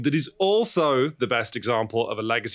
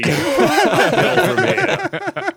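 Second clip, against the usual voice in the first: high laughing drawl, louder; 8 dB louder than usual. Real, not acted. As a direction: laugh through the words slowly. Laughing threat to co-hosts.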